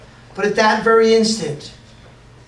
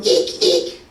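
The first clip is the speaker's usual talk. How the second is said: squeaky shoe; 3 semitones lower than usual. Shown as a demonstration. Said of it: "Like a squeaky shoe".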